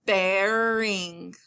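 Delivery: BEARING stretched slowly as one connected word; drawn-out word. Shown as a demonstration. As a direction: say "Bearing" long, without a break. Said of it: "sometimes when I say the word".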